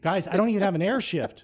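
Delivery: high, loud plea of disbelief; panicked protest. Retold or imitated. Rookie protesting to crew about going on stage, panicked. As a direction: protest as if wildly out of your depth.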